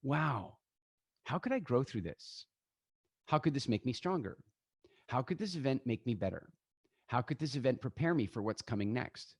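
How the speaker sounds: soft, calm, hopeful; calm reflective. Retold or imitated. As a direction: ask it gently to yourself. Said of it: "what if your question was".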